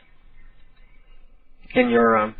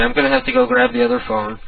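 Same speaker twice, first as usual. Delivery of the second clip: normal talking voice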